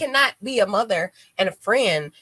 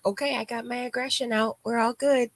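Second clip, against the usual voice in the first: higher, light and breezy, all better now; suddenly breezy and calm; 6 semitones higher than usual. Retold or imitated. To her friend, showing how she cools off: a light, higher, breezy voice. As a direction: flip to a sunny, light voice as if nothing happened. Calming down after venting.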